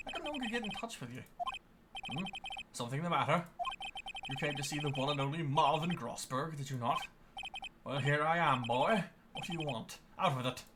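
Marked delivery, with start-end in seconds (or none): 2.1-10.6 put-on imperious old man calling him boy; lightly voiced stern elder; pompous old lawyer. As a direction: talk down to the young lawyer. Grossberg addresses the boy.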